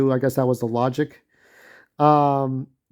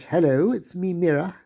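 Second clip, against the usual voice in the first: lightly voiced British accent, breezy hello; a hint of a British accent on Mira's line; 3 semitones higher than usual. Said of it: "with a British accent".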